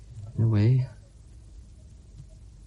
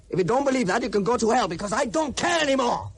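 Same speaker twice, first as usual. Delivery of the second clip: bitter shout; 8 semitones higher than usual. Acted. Angry farewell.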